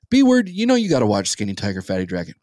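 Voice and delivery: mock a friend's pestering, dropping off at the end; nagging friend. Co-host imitating his friend's movie pestering, lightly nagging. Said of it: "I would hear".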